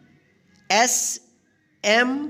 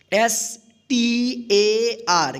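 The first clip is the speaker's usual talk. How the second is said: letters spelled out slowly one by one; drawn-out letter-by-letter spelling; much slower than usual. Shown as a demonstration. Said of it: "इस ए का आ उच्चारण होगा".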